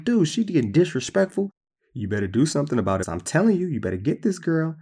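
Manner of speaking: a hint of a fed-up wife demanding action; indignant. Sarai complaining to Abram about the servant, mildly indignant. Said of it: "Sarai was like".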